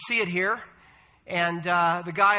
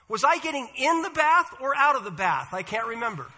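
put-on confused old lady; 4 semitones higher than usual. Confused old sister in a joke.

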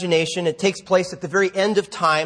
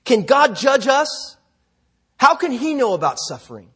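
higher-pitched, indignant challenge; angry snap; 5 semitones higher than usual. A narrator's reading. Woman from Pakistan challenges God's right to judge, snapping angrily. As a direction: demand an answer, with the pitch raised. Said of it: "snapped a young woman".

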